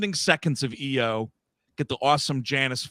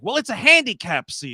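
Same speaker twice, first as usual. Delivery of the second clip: high, indignant lady insisting; entitled lady; 8 semitones higher, 6 dB louder than usual. Retold or imitated. Lady lecturing the man about the seat, high and pointed. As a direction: push back like she owns the seat. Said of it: "And this lady's like".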